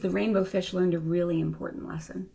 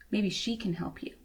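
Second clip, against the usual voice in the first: soft secretive whisper; 6 dB quieter than usual. Acted. Starfish telling the rainbow fish a secret, whisper. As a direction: lean in and breathe the words.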